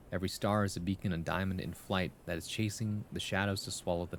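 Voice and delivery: lightly lilting verse reading; poem reading. Acted. Streamer reciting the poem to chat, gentle verse reading. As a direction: let the rhyme carry each line. Reads viewer poem aloud.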